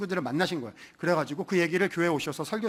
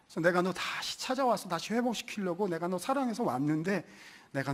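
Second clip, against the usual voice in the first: tender reassurance. Retold or imitated. Jesus voiced tenderly to Peter.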